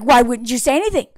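imitated interrogating husband; put-on reproachful demand; mock accusatory. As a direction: press her with pointed questions, half-acted. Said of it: "Like, everything is accusatory".

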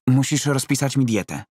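a client who wants a shortcut; Roman, pleading. Acted.

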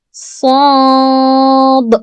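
"Sad" held, final "d" bouncing hard; stressed final d. Shown as a demonstration. Teacher demonstrating qalqalah on sad, final d stressed. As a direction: hit the ending "d" of "Sad" with a bounce. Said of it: "Sonundaki D'yi de vurgulu okuyorum".

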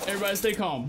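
ordinary talk, nothing marked

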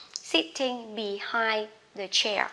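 very slow, every word laid out; careful slowed-down read; slow model reading. Shown as a demonstration. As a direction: read it slowly for the class. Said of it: "slow model read of phrase".

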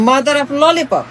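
slow, teasing "mother of lollipop"; sarcastic slow singsong of the nickname; mocking nickname. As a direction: drag the silly name out to ridicule her. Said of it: "মানে এর চাইতে তামাশা".

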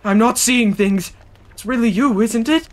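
grab the stranger by the sleeve; frantic hermit at the campfire; desperate old hermit. Acted. Voices the hermit NPC.

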